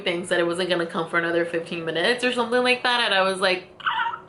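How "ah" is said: silent inner whine. Retold or imitated. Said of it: "but I'm not saying anything".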